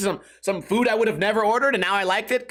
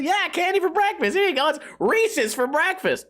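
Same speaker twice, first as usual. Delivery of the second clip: much higher, bright commercial announcer; cheery ad voice; 10 semitones higher than usual. Retold or imitated. Mimicking the Reese's commercial to listeners, high cheery ad voice. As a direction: sell it like an over-eager cereal ad. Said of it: "that's how the commercial goes".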